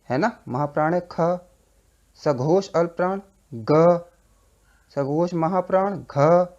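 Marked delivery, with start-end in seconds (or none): 2.2-6.5 ग said voiced and clean, घ said voiced with a breathy ha, both slow and loud; slow, loud consonant demo. Shown as a demonstration. Teacher slowly sounding out ग and घ from the throat. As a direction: drag out ग and घ so students hear the difference. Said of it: "ये सब कंठ से निकल रहे हैं".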